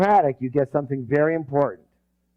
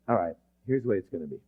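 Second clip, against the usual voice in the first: decisive announcement; 7 semitones lower, 6 dB quieter, much faster than usual. Acted. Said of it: "you just say".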